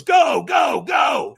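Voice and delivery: high, loud rapid-fire shout; urgent shouted send-off. Acted. Trainer launching the fire walker, urgent shout. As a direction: shout them off the starting line.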